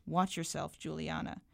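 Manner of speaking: low-key warning through clenched teeth; understated stern warning. A narrator's reading. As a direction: keep it quiet and tight, a restrained threat. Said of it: "she said through clenched teeth".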